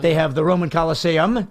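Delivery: lightly attempted Italian accent; joking, imperfect Italian accent. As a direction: have a go at a mock Italian. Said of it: "That is hard to pronounce in an Italian accent".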